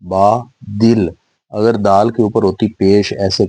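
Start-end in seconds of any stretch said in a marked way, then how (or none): 0.0-1.1 با دل read slowly as "ba dil", dal with zer; slowly sounding out با دل with a zer on dal; wrong reading with zer. Shown as a demonstration. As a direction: stretch با دل out as "baa dil", the wrong way. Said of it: "تو اس کی آواز بن جانی تھی با دل".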